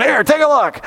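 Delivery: high, light offhand voice showing his wounds; tossed off, amused and easygoing; casual Jesus. Retold or imitated. Teacher voicing Jesus as he shows his wounds, amused and offhand.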